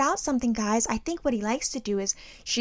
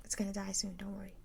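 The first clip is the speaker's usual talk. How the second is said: whispered self-calming; 18 dB quieter than usual. Retold or imitated. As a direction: whisper yourself down from panic. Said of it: "close the door ... and just breathe".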